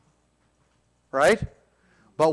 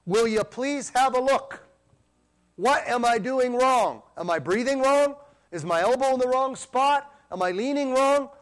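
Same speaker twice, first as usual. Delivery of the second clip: a light pleading voice for David, higher and slow; David's plea; 6 semitones higher than usual. Retold or imitated. Preacher voicing David's searching plea, lightly pleading and high. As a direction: ask earnestly like an archer seeking help. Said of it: "like David said".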